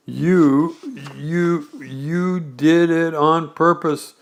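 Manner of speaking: slow, stammering indignant splutter; sputtered. Acted. Piglet spluttering soap at Kanga, slow indignant stammer. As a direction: choke out the accusation. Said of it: "sputtered Piglet".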